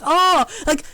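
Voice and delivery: lightly voiced nerdy scientist; a hint of a nerdy doctor; Doctor Snap voice. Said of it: "giving it a Doctor Snap voice".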